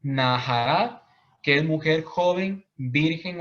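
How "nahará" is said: "nahará" spoken slowly, syllable by syllable; Hebrew word. Shown as a demonstration. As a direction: pronounce "nahará" slowly and carefully, like a teacher. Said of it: "También está la palabra". (pronunciar "nahará" despacio, sílaba por sílaba)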